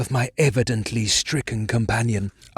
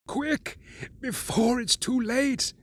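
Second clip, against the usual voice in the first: hopeless resignation; 12 semitones higher, 3 dB quieter than usual. A narrator's reading. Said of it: "softer quality, as of hopeless resignation".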